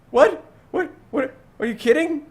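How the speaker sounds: high, loud shocked what what what; shocked disbelief. Retold or imitated. Gamer retelling his reaction to the storyline, high loud shocked disbelief. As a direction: sound stunned by a story twist. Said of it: "I'm like".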